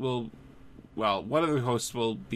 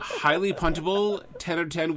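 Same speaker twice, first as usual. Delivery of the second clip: laughing; 4 semitones higher, 3 dB louder than usual. Real, not acted. Laughing reaction to the voicemail.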